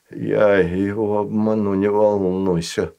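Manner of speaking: forcing words out; speaking with effort. Acted. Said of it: "с трудом произнёс стажар".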